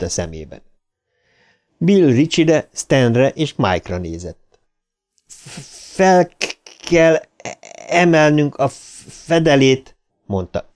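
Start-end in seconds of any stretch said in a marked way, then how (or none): 5.3-10.0 high, halting stammer; heavy stutter. A narrator's reading. Bill tells the others about the lid, heavily stammered. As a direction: fight each first sound before the word comes out.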